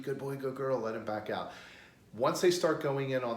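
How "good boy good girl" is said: slightly higher praise for a dog; mild excited praise. Shown as a demonstration. Trainer praising dog entering on its own, mildly excited. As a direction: reward the dog with a lift in the voice. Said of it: "act excited".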